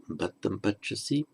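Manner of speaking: lighter without pronoun. Shown as a demonstration. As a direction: drop it lightly, just the verb. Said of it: "or just".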